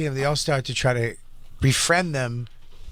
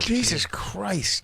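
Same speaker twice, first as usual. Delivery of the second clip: shocked exclamation; 6 semitones higher, 3 dB quieter, much slower than usual. Real, not acted. Reacting to the molester story.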